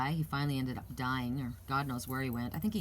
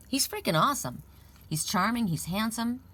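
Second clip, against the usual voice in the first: higher, louder quoted rave; imitated gushing praise; 6 semitones higher, 4 dB louder than usual. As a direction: gush like an adoring mother-in-law, lightly acted. Quoting grandmother who loved him.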